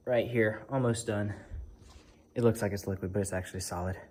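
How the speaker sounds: talking while out of breath; winded, breathing between words. Real, not acted. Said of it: "I'm out of breath".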